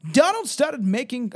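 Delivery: put-on wavering British accent. Reader trying a voice for Shirley's account, wavering British accent. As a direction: try a British accent that isn't settled yet. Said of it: "I keep changing her voice".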